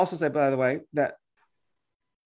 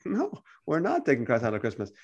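low, softer acted answer; calm rebuttal; 4 semitones lower, 4 dB quieter than usual. Believer answering the Christmas objector, calmly correcting. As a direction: answer the objection quietly, pitch dropped.

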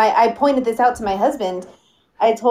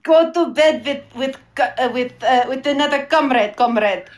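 put-on Russian accent. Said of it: "you sound a little Russian to me".

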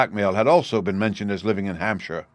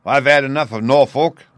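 put-on thick, louder half-drunk growl; lightly voiced drunk sailor, a little louder; half-drunken seaman; 4 semitones higher, 6 dB louder than usual. A narrator's reading. Drunken Hudson telling the family he's leaving, thick-voiced. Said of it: "in the thick voice of a half-drunken man".

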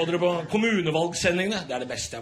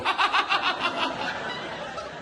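cackling laugh. Real, not acted. Comedian laughing at own hermit bit.

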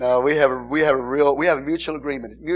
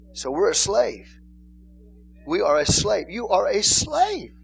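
slow emphatic repetition; 6 semitones higher, slower than usual. Shown as a demonstration. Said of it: "repeats slowly for emphasis".

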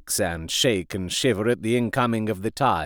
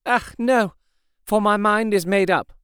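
martyr's devotion; 8 semitones higher than usual. A narrator's reading. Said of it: "the devotion of a martyr as she answered".

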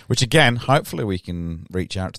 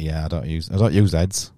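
put-on Michigan accent; 3 semitones lower than usual. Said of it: "Was that a Michigan accent?".

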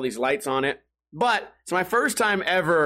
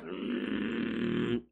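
low, soft mock growl; quiet mock dog growl; imitated dog growl; 5 semitones lower, 10 dB quieter than usual. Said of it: "and he'll growl".

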